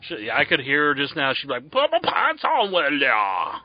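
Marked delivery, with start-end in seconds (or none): 1.7-3.6 lightly imitating an Irish accent, higher; a hint of Becky's Irish lilt; mock Becky Lynch accent. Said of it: "She has that crazy accent".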